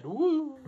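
high, soft ghostly woo; possessed wail. Retold or imitated. Teasing friend for getting possessed, spooky high wail. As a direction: imitate someone possessed, high and quiet. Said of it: "sounded like Gareth just got possessed".

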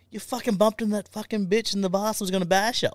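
high, hammed-up mate voice; mock indignant mate; mate explaining. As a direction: mimic the battered mate's complaint. Mate retelling the fight.

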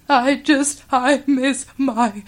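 high, drawn-out mock whimper; trembling, tearful. Homesick girl tears up in the tent, mock trembling whimper. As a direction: imitate a little girl starting to cry. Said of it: "she's got that little trembling voice".

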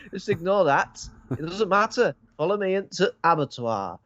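high, put-on coaxing voice; imitated seductress. Seductress brushing off danger, luring man.

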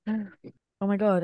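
slow yawn through words. Real, not acted. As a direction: say it mid-yawn. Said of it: "I can't stop yawning".

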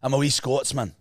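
plain-paced Scottish demonstration; Scottish accent. Shown as a demonstration. Host corrects co-host, Scottish accent. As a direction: model the line in a Scottish accent. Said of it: "But in the accent".

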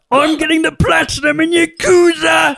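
very high, slow excited shouting; excited Rosie. Retold or imitated. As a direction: shriek with gamer joy. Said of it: "impression of Rosie being excited".

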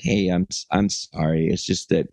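low, hesitant retold apology; understated, halting apology to strangers; mildly apologetic. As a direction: apologize awkwardly, keeping it low. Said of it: "I was really apologetic".

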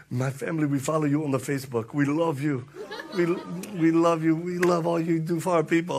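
imitated Iraqi-accented English; lightly put-on Iraqi accent. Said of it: "with an Iraqi accent".

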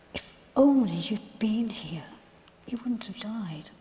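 whispered through tears; hushed and grieving, barely voiced; a broken whisper of reproach; tearful whisper. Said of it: "She was crying".

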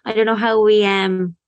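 lisping through a dental brace; slight lisp, brace in the mouth. Real, not acted. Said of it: "so I have my lisp again".

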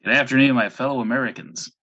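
distant, off-mic sound; far from mic. Real, not acted. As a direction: speak from across the room. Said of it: "if I sound a bit far away today".

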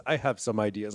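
lightly imitated Austrian action star, low and soft; a hint of the Austrian action hero; Arnold Schwarzenegger. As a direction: drop into a mild Austrian movie-robot voice. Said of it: "in Arnold's voice goes".

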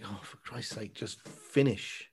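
drawn-out fed-up plea, slowing right down; weary viewer losing patience; exasperated groan. Retold or imitated. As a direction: beg the film to end, worn out. Exasperated at the long film.

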